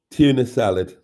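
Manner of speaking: real laugh breaking through the words; laughing helplessly while reading. Real, not acted. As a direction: giggle out the last words. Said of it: "I'm laughing at something else".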